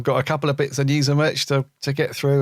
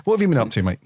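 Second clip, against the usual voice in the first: a hint of a pompous gentleman, pitched up; King James again; 2 semitones higher, faster than usual. Retrying the King James voice for his co-host, pitched up. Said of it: "sounded more like Stewie from Family Guy".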